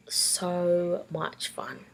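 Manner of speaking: slow, hushed and fond; fond whisper. Real, not acted. Sister remembering a week with her brother, fond hush. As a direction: savour the memory, slowly.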